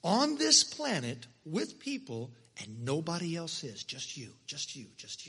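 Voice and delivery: God speaking tenderly to his own. Acted.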